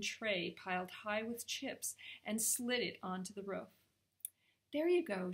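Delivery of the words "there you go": higher, louder kindly offering; friendly woman serving a treat. A narrator's reading. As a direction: hand it over kindly. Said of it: "she said kindly".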